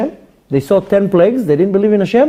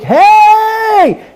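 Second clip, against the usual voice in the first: high, drawn-out cheery greeting; mock friendly hey; 5 dB louder than usual. Parent greeting the neighbour on the street, cheery. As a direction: sing out a fake-friendly hello.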